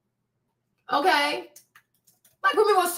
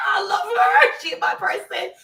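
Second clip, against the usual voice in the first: high-pitched squealing adoration; squeaky, overjoyed fangirl voice; excited gushing; 7 semitones higher than usual. Real, not acted. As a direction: gush it high, still giddy from the squeal. Gushing over child after squeal.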